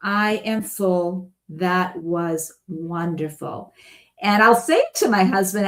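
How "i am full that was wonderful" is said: slow, satisfied after-meal sigh of words; contented sigh. Retold or imitated. A mock diner content after a big meal, slow and satisfied. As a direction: sink back, full and content. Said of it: "a big sigh".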